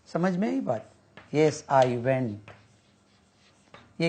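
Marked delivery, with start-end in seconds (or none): 1.3-2.4 very slow, even Yes I went; slow classroom drill answer; slow model answer. Shown as a demonstration. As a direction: say each word slowly.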